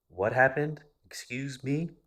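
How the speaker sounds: high, loud, rising disbelief; retold incredulity. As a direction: demand an explanation in shock. Acts out demanding mom repeat it.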